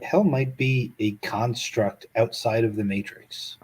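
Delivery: hushed unvoiced whisper. Real, not acted. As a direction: breathe it out as a secret. Repeats the thought in a whisper.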